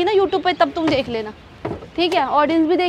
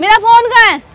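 sharp, raised-voice question; angry demand; 3 semitones higher, 4 dB louder than usual. Acted. Girlfriend mid-quarrel asking for her phone, angry demand. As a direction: demand it back in a temper.

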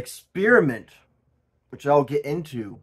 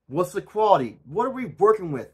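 higher and louder mock outrage; getting heated; 6 semitones higher, 6 dB louder than usual. Ranting about Temu items, mock-heated and higher. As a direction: ramp up the fake fury. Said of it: "Got very heated".

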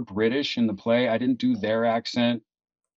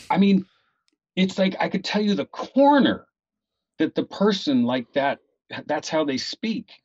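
higher, halting voice of wonder; imitated amazed admirer; 6 semitones higher than usual. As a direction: act out an astonished theatergoer, pitched up. Same amazed audience member, quoted.

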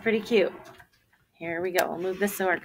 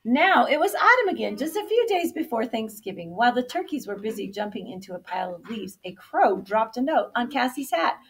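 animated storybook narration; reading to children; 3 semitones higher, 4 dB louder than usual. A narrator's reading. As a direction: set the scene for young listeners. Reads story to kindergarten.

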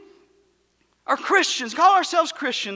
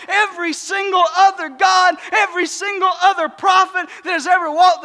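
preaching at full force. Acted. Pastor to his church on Easter, full-force preaching. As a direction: build the congregation up with every word.

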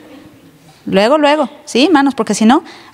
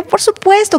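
emphatic yes; 9 semitones higher than usual. Acted. Emphatic answer repeated.

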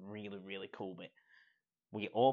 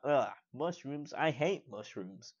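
mock disgust at food; 4 semitones higher than usual. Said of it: "and he's like".

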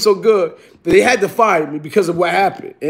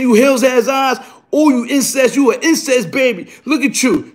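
higher-pitched mock rant; retold wild tirade; 4 semitones higher than usual. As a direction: re-enact hurling insults. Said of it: "I was wilding on this bitch".

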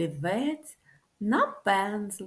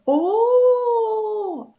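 high startled oh; frightened O, much higher; 11 semitones higher, 7 dB louder than usual. Shown as a demonstration. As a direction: gasp out O like a scared little face. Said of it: "і зляканий такий, каже".

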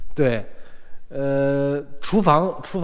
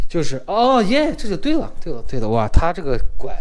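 excited; 5 semitones higher than usual. Real, not acted. Excited about ideal bathroom layout.

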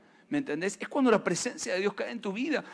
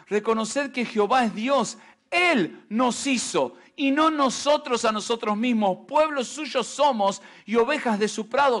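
solemn scripture reading to the church; preacher reading a psalm. Acted. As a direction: read it out like holy text, measured. Reads the psalm aloud.

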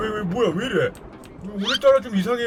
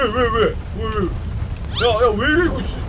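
ordinary talk

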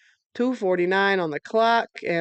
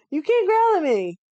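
voicing the dog, pitched up high; 9 semitones higher than usual. Speaking for Toto as she guards the toy, high and cheeky.

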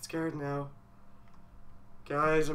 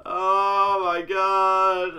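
alarmed; much slower than usual. Real, not acted. Sees something frightening in game.

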